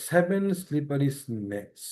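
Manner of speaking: six after six spoken very slowly, each s crisp; slow tongue twister. Shown as a demonstration. Teacher slowly models the tongue twister for the class. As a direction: read it slowly, word by word. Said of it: "tongue twister হিসেবে পড়বো".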